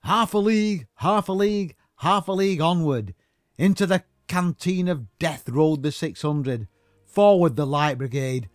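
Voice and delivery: loud, grand recitation of a war poem; mock poem recital. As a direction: declaim it like a pompous war poem. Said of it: "It's like".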